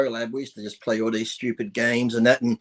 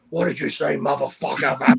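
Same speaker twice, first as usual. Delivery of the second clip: mock-threatening swearing in an English accent; imitated English accent. English bodybuilder confronting a kid who jeered, imitated English accent. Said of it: "he's got that big English accent".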